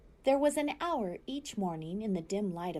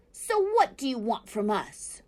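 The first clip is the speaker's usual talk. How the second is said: fox growl; 4 semitones higher, 6 dB louder than usual. A narrator's reading. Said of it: "growled Fink".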